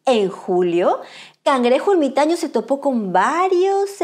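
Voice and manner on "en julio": ordinary delivery, nothing marked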